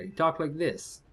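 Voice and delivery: slow, lightly imitated Croatian accent. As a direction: drawl it slowly like a Croatian coworker. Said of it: "I had this Croatian coworker".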